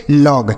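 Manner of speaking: लॉग with an open "aw" vowel, falling; correct लॉग. Shown as a demonstration. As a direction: model लॉग as "lawg", not "lohg". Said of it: "इसे हम पढ़ेंगे लॉग".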